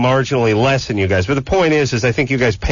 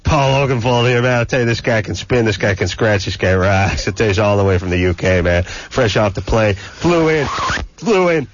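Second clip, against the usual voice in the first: hick DJ voice. Acted. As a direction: play a cornpone country DJ hyping the guest. Hammed-up hick radio DJ bit.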